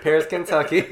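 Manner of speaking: laughing through the words; cracking up mid-word. Real, not acted. Laughing at Paris joke.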